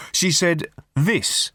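an irritated brother mocking his sister; exasperated Russell. A narrator's reading.

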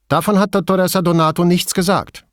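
terse middle-aged woman, wary; Signora Toso voice. A narrator's reading. Toso speaks.

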